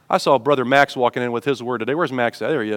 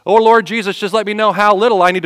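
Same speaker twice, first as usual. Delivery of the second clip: high, loud mock-pleading call; put-on pleading appeal to the Lord; mock prayer; 5 semitones higher, 4 dB louder than usual. Believer bargaining over the offering plate, mock prayer.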